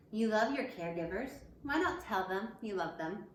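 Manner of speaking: put-on lively picture-book reading for kids; reading to children. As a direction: read it out brightly to the class. Teacher reads picture book aloud.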